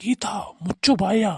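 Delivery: slow, stern command; husband silencing his quarrelling wife; stern order. Acted. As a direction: tell her firmly to shut up.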